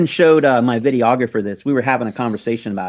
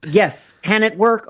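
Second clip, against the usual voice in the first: high, slow "can it work" with rising tune; rhetorical question; 7 semitones higher, slower than usual. Shown as a demonstration. To the audience, high slow teasing question. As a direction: tease the question before answering. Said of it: "asked twice".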